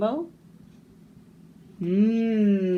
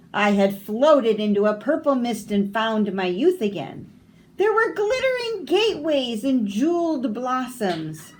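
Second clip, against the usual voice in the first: put-on old man voice; 3 semitones higher, 4 dB louder than usual.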